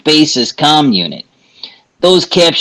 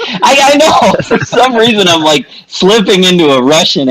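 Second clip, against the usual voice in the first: higher, laughing admission; sheepish laugh; 8 semitones higher than usual. Real, not acted. GM admitting the slip to his players, giggling. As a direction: caught out, giggling it off. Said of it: "I hear Russian coming out of your accent".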